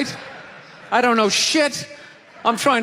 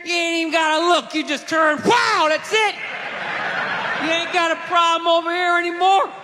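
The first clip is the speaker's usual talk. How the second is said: loud, higher gun-store redneck hyping the shotgun; excited redneck shout; 5 semitones higher, 3 dB louder than usual. Acted. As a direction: yell it like a gun nut loving his spread. Gun clerk selling shotgun, shouting.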